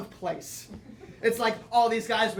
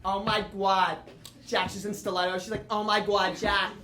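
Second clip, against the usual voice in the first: a hint of Snooki-style gum-chewing Jersey voice; lightly voiced brash Jersey woman; Jersey girlfriend. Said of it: "So she'll be like".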